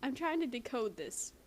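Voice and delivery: soft, hushed reading; quietly. A narrator's reading. Dipper quietly brushing off his sister. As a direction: say it quietly, absorbed in the book. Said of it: "Dipper said quietly".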